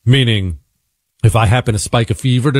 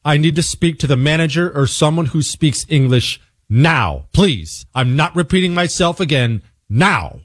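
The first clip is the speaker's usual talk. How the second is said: firm demand; 5 semitones higher than usual. Retold or imitated. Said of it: "I tried to calmly get upset".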